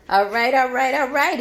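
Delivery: lightly imitated comedian's catchphrase delivery; a hint of a celebrity impression; Kevin Hart voice. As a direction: toss it off as a light comic impression. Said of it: "in my Kevin Hart voice".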